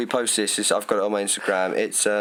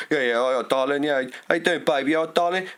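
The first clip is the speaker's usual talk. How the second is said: mock Essex lad chat-up, rising higher; 5 semitones higher than usual. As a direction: ham up a cheesy Essex geezer. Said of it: "everyone's like".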